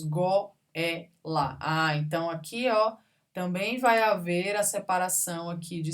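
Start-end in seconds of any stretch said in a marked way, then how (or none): 0.0-0.5 "goela" as go-é-la; three separate syllables. Shown as a demonstration. Teacher confirming the answer, three syllables. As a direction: pause between go, é and la in "goela". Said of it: "Falamos goela".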